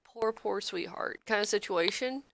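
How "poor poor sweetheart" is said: mock Southern sympathy. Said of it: "I'll be someone that's like".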